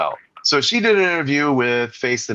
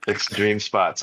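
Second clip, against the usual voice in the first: put-on British accent; 6 semitones lower, much slower than usual. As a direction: lower mock British pronunciation. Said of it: "he speaks with the British accent".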